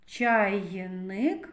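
"Чайник" with Й held out as "ча-йй-ник"; sound Й emphasized. Shown as a demonstration. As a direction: stretch the Й in "Чайник". («Чайник» із протяжним Й)

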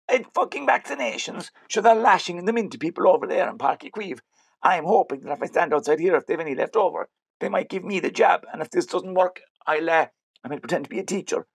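high-pitched, excited character voice; hammed-up explaining, pitched well up; animated explanation. Fake cop tells driver his vaccine plan, high animated voice.

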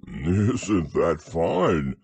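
loud, very slow call from above; shouting down. Acted. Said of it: "shouted Winnie the Pooh down to you".

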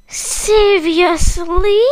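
slow, drawn-out worried seriously; scared question. Acted. Kakamustik learning stings can kill, slow and scared. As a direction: stretch seriously, a touch scared. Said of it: "asks Kakamustik scared".

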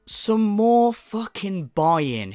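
very slow, scornful repeat; scornful echo. Retold or imitated. Echoing the streamer's phrase to viewers, slow and scornful. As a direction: sneer the phrase back slowly. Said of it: "mocking the streamer's phrase".

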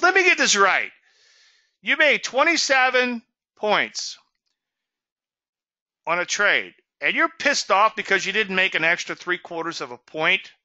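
mock the absurdity of being angry; retold broker in disbelief; incredulous disbelief. Trader incredulous on the phone.

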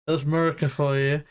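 jokey American "Murica"; playful mock-American catchphrase; American twang. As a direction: lean lightly into an American accent. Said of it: "You're going American on us".

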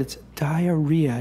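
slow, lingering on the name; smitten savoring. Acted. Smitten prince savours the girl's name.

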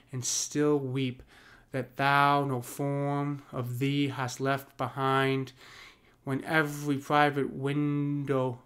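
slow, measured sonnet recital; unhurried Shakespeare reading; poem reading. Acted. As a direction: read the verse slowly with weight on each line. Reads the sonnet aloud.

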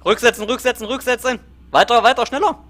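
high urgent yelled orders; shouting. Real, not acted. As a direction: bark out reverse commands. Commander shouting reverse orders.

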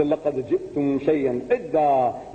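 rapid Arabic Quran recital; Quranic recitation. Acted. Preacher quoting the verse to the audience, quick recitation.

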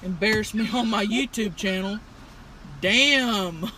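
talking around cigarette; cigarette in mouth. Real, not acted. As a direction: lips clamped on cigarette. Seen 4: Cigarette held between lips in every labelled frame.

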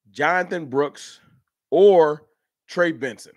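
slow, drawn-out commissioner announcement; mock podium announcement, slow; draft pick announcer.

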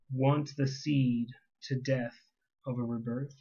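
measured, deliberate spoken-word delivery; monologue reading. Acted. Speaker to the one who deceived them, monologue reading. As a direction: recite it as a restrained accusation.

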